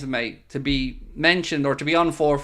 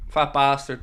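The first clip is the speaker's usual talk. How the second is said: lightly voiced Scottish shout, get in my belly; a loud, hammed-up Scottish line; Scottish accent; 4 dB louder than usual. Shown as a demonstration. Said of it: "The only one I can try is".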